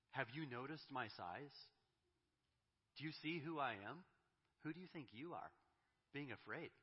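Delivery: put-on God confronting his frightened children, forceful; confrontational challenge. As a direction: make them feel your size. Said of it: "that's his approach".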